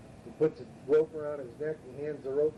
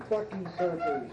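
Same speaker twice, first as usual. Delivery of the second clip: put-on drunken yell; 5 semitones higher, slower than usual.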